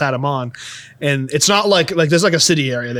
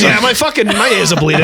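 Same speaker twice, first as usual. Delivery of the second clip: quoted through laughter, pitched up; laughing quote; 4 semitones higher than usual. Retold or imitated. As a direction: laugh while quoting a friend's complaint. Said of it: "He goes".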